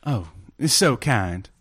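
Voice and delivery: sultry voice. Acted. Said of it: "that's a sultry voice she has".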